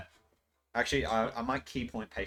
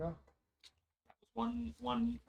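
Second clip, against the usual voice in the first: mock lament; 12 semitones higher, 5 dB quieter, much slower than usual. High drawn-out mock lament.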